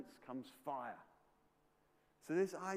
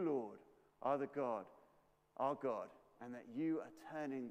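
earnest prayer. Acted. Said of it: "he talks to his heavenly Father".

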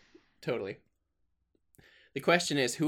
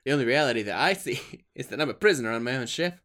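Kirk quote; 3 semitones higher, 6 dB louder, faster than usual. Retold or imitated. Quoting Kirk, loud.

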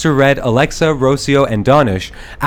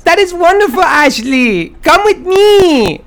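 ghost voice; 13 semitones higher, 3 dB louder than usual. Acted. Christmas lady speaks.

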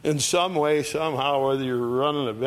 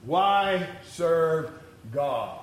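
higher, scoffing whine of the doubters; mocking doubters; 6 semitones higher, much slower than usual. Preacher mimicking people who ask why serve God, scoffing. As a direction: sneer it like someone who sees no point. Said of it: "they said".

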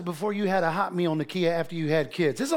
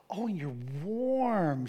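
tender coo; 5 dB quieter, slower than usual. Retold or imitated. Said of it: "I said".

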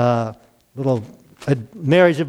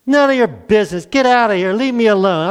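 higher, louder defiant retort; mock indignant get-lost; defiant brush-off; 5 semitones higher, 3 dB louder than usual. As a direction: snap back like a stubborn king. Ahab rejecting God's voice.

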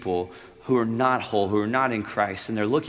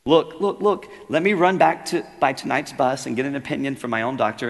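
much higher, louder, hurried pleading; begging ghost; 5 semitones higher, 8 dB louder than usual. Acted. Ghost begs the angel for time, pleading. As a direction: beg desperately for more time.

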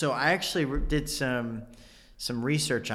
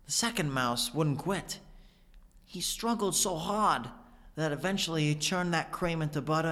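Walken monologue; 3 semitones higher than usual. Retold or imitated. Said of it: "So I'm gonna say the whole thing".

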